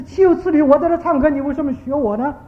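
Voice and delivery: acted-out child's indignation, pitched high and tapering off; indignant scolding. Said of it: "他就骂那个小孩子". (模仿孩子气呼呼地骂人)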